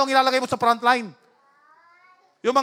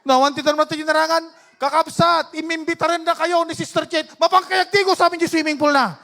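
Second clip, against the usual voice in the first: raised, emphatic preacher voice; preaching; 4 semitones higher, 5 dB louder than usual. Real, not acted. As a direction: press the congregation for an amen. Preaches to congregation. (masiglang pangangaral)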